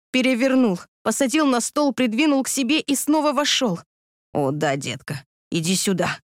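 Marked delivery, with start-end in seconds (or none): 4.3-6.2 low, soft, husky; husky low murmur; lower, softer husky man; husky whisper. A narrator's reading. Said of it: "хрипло прошептал он".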